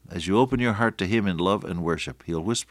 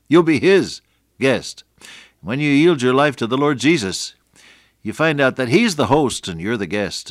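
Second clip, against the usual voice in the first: preaching at full force, much louder and higher; 6 semitones higher, 8 dB louder than usual. Acted. Radio preacher proclaiming to listeners, loud and high. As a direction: swell up and proclaim it to the radio audience.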